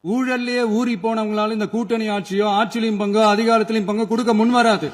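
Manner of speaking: emphatic, projected rally oratory; political speech. Real, not acted. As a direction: drive each point home to the crowd.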